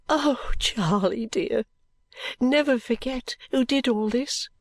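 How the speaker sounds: drawn-out affectionate exhortation; tender. Acted. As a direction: gently urge the child, deeply moved. Moved mistress gently exhorts Charley.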